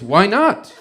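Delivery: put-on loud Italian accent, leaping up in pitch; hammed-up, baffled Italian visitor; mock Italian tourist. Italian visitor pressing for an answer, mock Italian accent.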